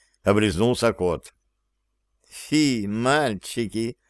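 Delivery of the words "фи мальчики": soft, slow, mincing disdain. A narrator's reading. Petri primly scolding the boys, soft and slow mincing. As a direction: coo it out, prim and coy. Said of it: "жеманно пожал плечиком Петри".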